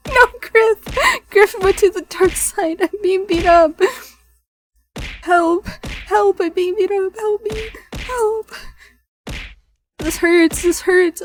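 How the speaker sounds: high, loud mock cries for help; yelling for help. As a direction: holler for help, hammed-up. Crying for help under attack.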